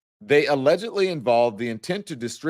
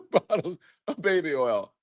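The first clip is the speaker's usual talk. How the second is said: laughing; 4 semitones higher, 4 dB quieter than usual. Real, not acted. Host laughing mid-read.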